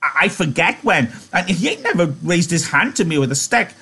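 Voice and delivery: high-pitched belligerent protest; high, stammering defiance. A narrator's reading. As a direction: argue back hotly in a high voice. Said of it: "Lenny retorted belligerently".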